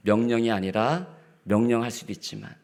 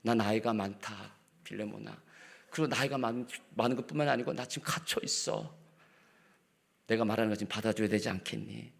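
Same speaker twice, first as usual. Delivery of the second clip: loving plea; 8 dB quieter than usual. Retold or imitated. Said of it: "그냥 사랑으로서".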